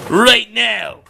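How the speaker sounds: barked demand; loud command. Acted. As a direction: shout the order. Demanding duel.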